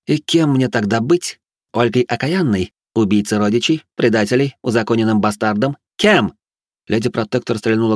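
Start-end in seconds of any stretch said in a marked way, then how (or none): 0.1-6.3 bitter mad noblewoman. Acted. Batori's bitter questions.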